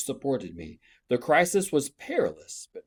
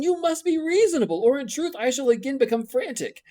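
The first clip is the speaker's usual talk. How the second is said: higher and louder, building to frantic; rising frantic passion; 7 semitones higher, 5 dB louder than usual. Acted. Rochester pressing Jane to be his wife, higher and frantic. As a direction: grow more frantic line by line.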